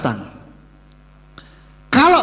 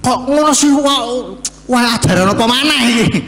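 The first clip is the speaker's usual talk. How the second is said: laughing, high mock disbelief; teasing imitation of a scandalised congregant; mock shocked listener; 5 semitones higher, 4 dB louder than usual. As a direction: play the doubting listener through a laugh.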